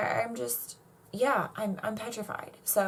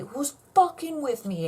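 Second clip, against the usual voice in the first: louder, pushier repeat; 6 semitones higher, 4 dB louder than usual. Real, not acted. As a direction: demand it louder and higher the second time. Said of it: "Okay, who's fucking with me".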